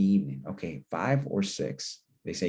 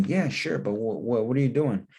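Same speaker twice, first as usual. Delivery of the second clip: cousin's reply; 3 semitones higher than usual. Acted. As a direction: play the cousin, curious and a bit wary. Cousin's reply acted in role-play.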